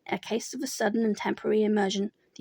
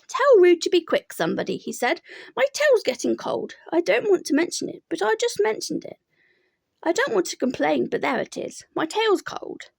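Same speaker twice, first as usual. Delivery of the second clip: higher, gloomy complaining donkey; Eeyore voice; 8 semitones higher, 3 dB louder than usual. A narrator's reading. Eeyore complains his tail is cold, gloomy voice. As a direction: moan about it like a glum donkey.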